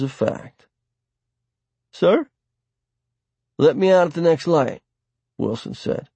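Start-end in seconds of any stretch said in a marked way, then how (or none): 1.9-4.8 raised voice to the driver, higher; calling out. A narrator's reading. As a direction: call out to get the driver's attention. Wilson calls to the driver.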